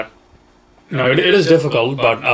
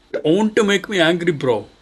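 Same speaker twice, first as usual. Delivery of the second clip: mock angry; 6 semitones higher than usual.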